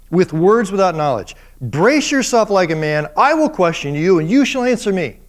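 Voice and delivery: stern God. Retold or imitated. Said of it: "what God is saying".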